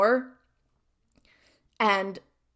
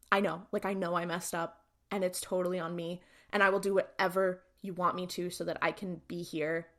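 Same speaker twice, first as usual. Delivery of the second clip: softly pleading, contrite retelling; low-key imitation of someone groveling; groveling apology; 3 semitones lower, 5 dB quieter than usual. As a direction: plead quietly for forgiveness, understated. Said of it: "is totally groveling".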